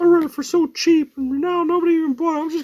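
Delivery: very high, loud, goofy dumb-guy voice. Acting out their past self venting when something didn't sell, in a stupid voice. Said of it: "that's my stupid voice".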